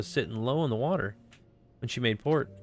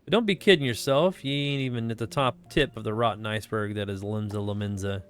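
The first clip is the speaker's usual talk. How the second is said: put-on pirate accent. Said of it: "I can't get the yers and the yees and the args".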